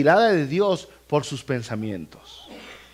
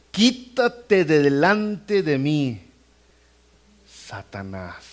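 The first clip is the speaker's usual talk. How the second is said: slow solemn rebuke; much slower than usual. Acted. Reading Jesus' rebuke slowly.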